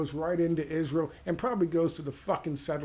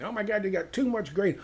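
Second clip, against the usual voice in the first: mock yelling soldier; 5 semitones higher, 3 dB louder than usual. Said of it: "they start yelling at him".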